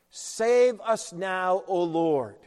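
slow prayer. Acted. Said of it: "It's a prayer".

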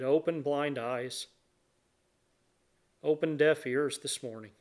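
reverent prayer with long pauses between phrases; public prayer. Real, not acted. Leads the congregation in prayer.

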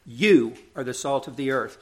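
"You" lifted above the rest of the verse; stress on You. Retold or imitated. Preacher showing Jesus's emphatic pronoun, stress on You. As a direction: put the weight on "You", then ease off. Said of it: "makes emphatic use of this second person".

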